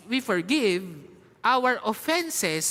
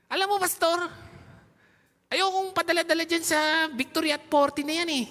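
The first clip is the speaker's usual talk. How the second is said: quoting a parent; 5 semitones higher than usual. Retold or imitated. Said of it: "Sabi niya".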